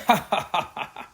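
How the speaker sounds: high laughing ha-ha; the boys laughing at the trick on their friends; bursting laughter. A narrator's reading. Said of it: "burst out laughing".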